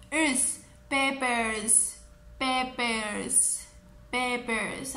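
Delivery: "Peppers" as Pepe plus an "ers" ending; built from Pepe. Shown as a demonstration. Teacher building the word from Pepe, "Peppers" in two clear parts. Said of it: "solamente le vamos a añadir".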